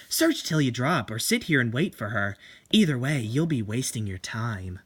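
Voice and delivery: coolly self-assured seductress; Tomie voice. Acted. Tomie taunting the painter.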